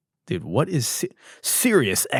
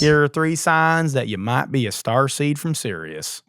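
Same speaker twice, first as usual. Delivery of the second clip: put-on Southern accent; 2 semitones higher than usual. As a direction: lay on a Southern accent to mock the guru. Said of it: "hide his Southern accent".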